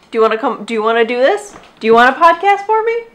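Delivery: sing-song question to a pet; talking to dog. Real, not acted. Coaxing her dog to talk.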